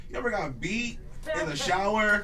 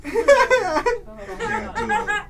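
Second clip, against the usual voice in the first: laughing; 9 dB louder, much slower than usual. Real, not acted. Laughing refusal.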